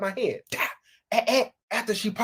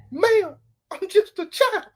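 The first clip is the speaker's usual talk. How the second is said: put-on higher, slow pleading little-boy voice; drawn-out childlike plea; 9 semitones higher, 4 dB louder, slower than usual. Teen pleading innocence to the cougar, slow high whine. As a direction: stretch it out like a helpless kid. Comic catchphrase refrain.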